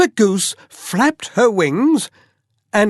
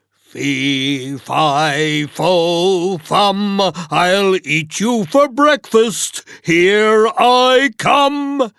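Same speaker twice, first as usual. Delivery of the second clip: thundering giant; slower than usual. Acted. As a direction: chase him down, getting bigger each word. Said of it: "he thundered".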